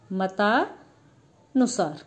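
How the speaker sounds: very slow, each sound stretched out; drawn-out demo. Shown as a demonstration. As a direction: spell out मतानुसार syllable by syllable, very slowly. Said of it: "किसकी मात्रा लगनी है?". (मतानुसार को बहुत धीरे, खींचकर बोलना)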